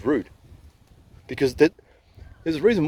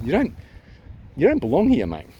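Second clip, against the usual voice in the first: higher, indignant telling-off; indignant rant; 4 semitones higher than usual. Real, not acted. Man ranting at those who ganged up on him, indignant. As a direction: tell them off, pitch jumping up. Angry rant at absent strangers.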